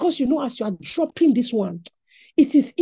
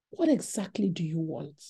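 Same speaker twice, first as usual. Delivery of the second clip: lower, softer exasperated question; 1 weary question; 7 semitones lower, 8 dB quieter than usual. Retold or imitated. Preacher voicing himself answering a pestering caller, low and weary. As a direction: ask it tired of being pestered.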